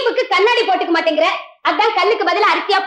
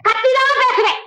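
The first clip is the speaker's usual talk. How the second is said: defiant shout; 4 semitones higher than usual. Acted. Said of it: "ஏன் கத்தி பேசுற".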